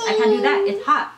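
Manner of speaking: high, laughing whine of protest; mock whiny complaint. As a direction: her own complaint to the nurse, replayed as a laughing high whine. Retold complaint to frustrated nurse.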